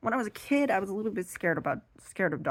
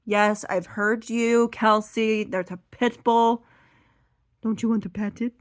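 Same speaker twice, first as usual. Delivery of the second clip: exasperated sister; 4 semitones higher, 6 dB louder than usual. Retold or imitated.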